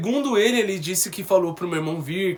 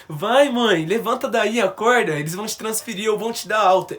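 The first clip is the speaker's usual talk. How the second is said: higher and louder, coaxing her to wake; urging plea; 5 semitones higher, 5 dB louder than usual. Retold or imitated. Son urging his dead mother to wake, higher, louder plea. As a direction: call out to her like she's only sleeping.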